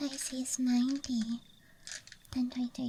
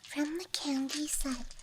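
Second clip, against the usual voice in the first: ASMR whisper. Real, not acted. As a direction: whisper close to the mic. ASMR dice show-and-tell.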